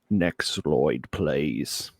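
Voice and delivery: broad put-on Aussie accent; exaggerated Australian accent. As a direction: ask in a hammed-up Australian accent. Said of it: "in an exaggerated Australian accent".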